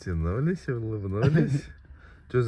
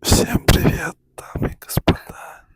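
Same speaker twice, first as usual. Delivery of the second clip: ASMR whisper. Pretend. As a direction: whisper close to the mic like ASMR. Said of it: "у нас А С М Р".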